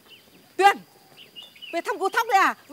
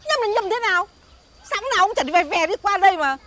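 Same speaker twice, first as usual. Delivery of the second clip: indignant disbelief; 3 semitones higher than usual. Acted. Vendor indignant at doubt.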